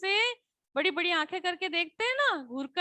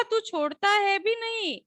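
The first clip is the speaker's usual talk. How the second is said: angry demand. Shown as a demonstration. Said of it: "एकदम से गुस्से में कहा".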